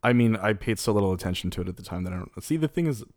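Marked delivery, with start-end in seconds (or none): 2.4-3.0 burping. Real, not acted. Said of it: "excuse me, I'm burping".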